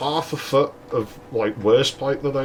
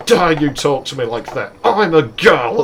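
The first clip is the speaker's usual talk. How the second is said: put-on indignant girl; 4 semitones higher, 5 dB louder than usual. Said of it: "It's like".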